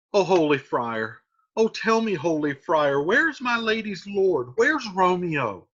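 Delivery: slow, anxious, urgent nurse; pleading nurse. Acted. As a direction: beg the friar for Romeo.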